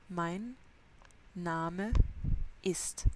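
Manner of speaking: Mein, Name, ist with pauses between words. Shown as a demonstration. Teacher breaking Mein Name ist into words. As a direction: separate each word of Mein Name ist. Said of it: "important de tout prononcer".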